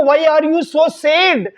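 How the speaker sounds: very slow, each word spaced out; slow teaching model line. Shown as a demonstration. Teacher slowly models the husband's English question. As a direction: say it slowly so learners can copy. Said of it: "अगर आपको किसी को कहना है".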